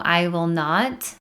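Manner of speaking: slow "I will not" with a rise on "not"; deliberate, slowed "I will not"; slow quote. Shown as a demonstration. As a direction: draw out "I will not" slowly. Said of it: "the universe doesn't know".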